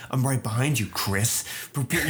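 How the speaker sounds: a light imitation of a dull robot voice; mock robot monotone. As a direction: drop the pitch and threaten with no feeling. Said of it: "if it just changed my tone".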